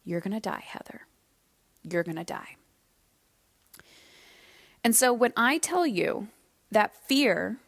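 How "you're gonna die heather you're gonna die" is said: fearful inner voice. Retold or imitated. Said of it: "My biggest fear was coming to life".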